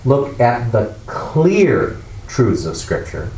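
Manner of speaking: slow, with "clear" stretched and set apart; deliberate teaching emphasis on "clear"; stress on clear. Shown as a demonstration. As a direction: pause before "clear" and draw it out. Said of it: "That's why we emphasize here".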